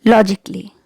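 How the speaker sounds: logically with silent A, lo-ji-klee; correct logically. Shown as a demonstration. Teacher modelling logically for viewers, silent A. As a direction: say logically as three syllables, no A. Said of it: "pronounce it like logically".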